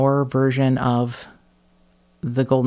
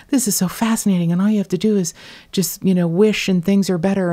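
lightly gushing, higher and quick; mock enthusiasm; 6 semitones higher, faster than usual. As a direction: imitate a fascinated new convert, a touch breezily. Mimics own former enthusiasm.

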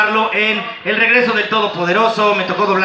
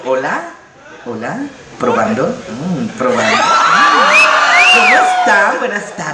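deep macho voice; 6 semitones lower than usual. Retold or imitated. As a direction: drop low like a manly cartoon hunk. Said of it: "Diría algo así como".

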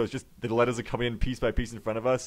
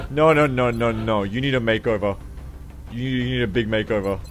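french chef; 6 dB louder than usual. Acted. Makeover character customization.

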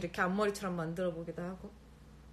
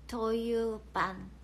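careful slow reading; much slower than usual. Real, not acted. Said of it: "이거 어떻게 읽는 거예요?".

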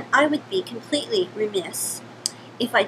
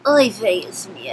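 put-on Yiddish accent; 3 semitones lower, 7 dB louder than usual. Yiddish character intro.

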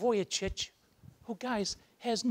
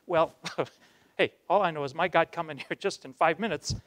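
chuckling through the words, a bit louder; laughing reply; 5 dB louder than usual. Retold or imitated. Nick laughing back at the scoffing madame. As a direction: answer with a delighted laugh.

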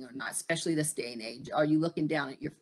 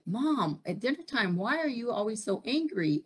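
lightly voiced children, higher pitched; children's complaint; 6 semitones higher than usual. Children ask mother why she is always angry, complaining. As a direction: plead a little, in a higher voice. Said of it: "my children said".

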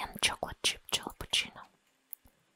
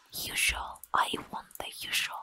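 cool customer; 5 dB louder than usual. Retold or imitated. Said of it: "come into the unknown cafe and say".

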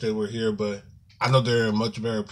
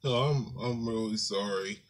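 subdued, halting apology through real tears; tearing up; 5 dB quieter than usual. Real, not acted. Vlogger sorry that a fun video turned sad, quietly tearful. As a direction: hold back tears, sighing partway. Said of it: "I start tearing up".

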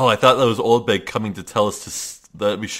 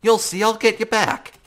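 pushy reporter voice; 12 semitones higher, 5 dB louder than usual. Acted. Voicing the reporter character.

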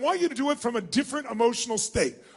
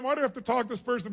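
annoyed inner voice; 4 dB quieter, faster than usual. Retold or imitated. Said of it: "really think it's a waste of your time".

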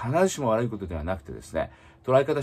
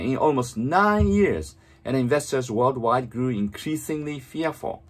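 very slow, fully articulated English reading; read-aloud model; much slower than usual. Shown as a demonstration. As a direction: move the lips fully, reading slowly for shadowing. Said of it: "本当に大きな声で唇を思いっきり動かして". (口を大きく動かしてゆっくり音読)

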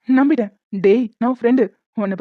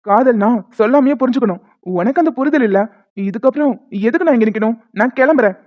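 staged angry quarrel. Pretend. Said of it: "சண்டை போடுற மாதிரி".

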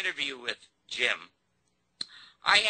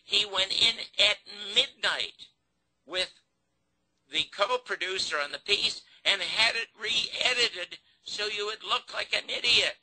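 high-pitched, insistent case-making; indignant pleading; 8 semitones higher than usual. Retold or imitated. Producer telling Garrison how he was wronged, indignant retold appeal. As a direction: press the grievance, pitched well up. Still retelling plea to Garrison.

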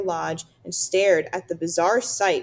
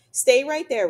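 firm order; 6 semitones higher, 6 dB louder than usual. A narrator's reading. Mister Beaver orders Roz to wait.

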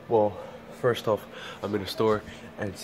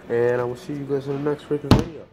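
upbeat, higher, louder sign-off; excited outro; 6 semitones higher, 3 dB louder than usual. Real, not acted. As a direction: pump up the goodbye to fans. Energetic vlog sign-off.

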